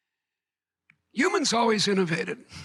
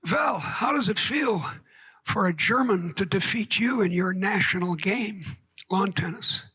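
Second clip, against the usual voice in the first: put-on thick German accent. Becker taunting Thatcher about tennis, mock German accent. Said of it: "in a thick German accent".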